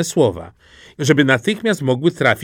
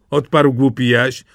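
plain reading voice

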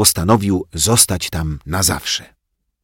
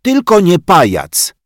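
much higher, louder indignant puppet; offended anger; 11 semitones higher, 8 dB louder than usual. Acted. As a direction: protest hotly. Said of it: "rozgniewał się pajacyk".

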